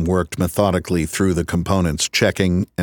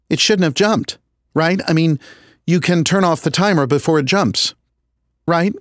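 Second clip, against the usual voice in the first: Diane's voice; 9 semitones higher than usual. Acted.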